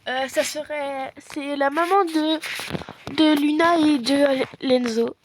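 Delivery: a mother phoning another parent to invite her kids, in a lightly voiced polite tone; pretend mother on the phone. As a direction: play the mum calling other parents. Plays mother phoning families.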